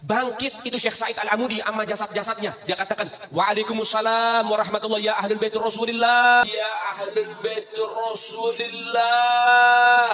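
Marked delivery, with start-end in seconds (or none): 3.3-6.4 loud, slow and solemn; solemn greeting. Acted. Risen saint greets the visiting habib, loud and solemn. 6.4-10.1 long drawn-out shout, rising high; calling out. Acted. Risen saint cries out to the Prophet's family, drawn-out shout.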